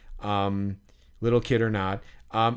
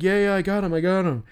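higher-pitched, eager kid impression; imitating excited kid; 8 semitones higher, faster than usual. Little kid tells the man he got the autograph, imitated excitedly. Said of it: "like, the kid".

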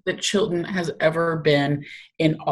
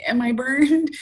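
imitating Chilton's whine; 6 semitones higher, slower than usual. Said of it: "I know he goes".

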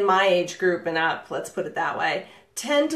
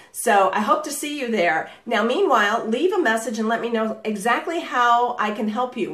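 upbeat voicemail; 2 semitones higher than usual. Shown as a demonstration. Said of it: "See the difference?".

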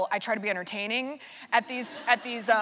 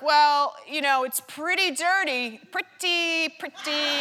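Larry David impression; 5 semitones higher, slower than usual. Larry David warns her the part is very dirty, lightly imitated. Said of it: "It sounded just like him".

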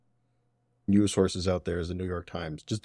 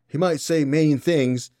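mock Southern accent, slow, higher and louder; 5 semitones higher, 5 dB louder than usual. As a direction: ham up a Southern US voter's accent. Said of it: "gave him a fucking southern accent".

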